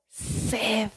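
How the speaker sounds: "sed" dropped low and soft, almost to itself; quiet key word. Shown as a demonstration. Preacher naming the verse's key word to the church, low and soft. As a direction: murmur "sed" low as it is first named. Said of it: "la primera palabra del versículo es la clave".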